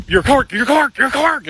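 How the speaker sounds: high, excited calling out; singsong teasing call; kids teasing. Retold or imitated. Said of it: "we're like".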